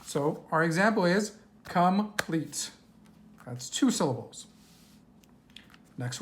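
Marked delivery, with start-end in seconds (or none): 1.6-2.7 "complete" split into two separate beats; syllable by syllable. Shown as a demonstration. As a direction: break "complete" clearly in two, com, plete. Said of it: "we're gonna count the syllables".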